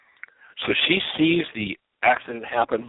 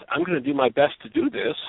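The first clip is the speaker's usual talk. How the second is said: sincere promise; 12 semitones higher than usual. Retold or imitated. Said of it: "the person who says".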